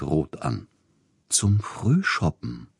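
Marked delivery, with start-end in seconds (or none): 1.3-2.7 slow, gentle, higher-pitched lilt. A narrator's reading. Agent sweetly answers the angry composer, gentle. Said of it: "sagte Siegfried Neugebauer sanft".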